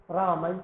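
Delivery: "रामई" ending in an a-i glide, low and soft; quiet careful "रामई", raa-ma-i; ai vowel demo. Shown as a demonstration. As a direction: close "रामई" on ai, not e. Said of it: "ये आई बोला जाएगा".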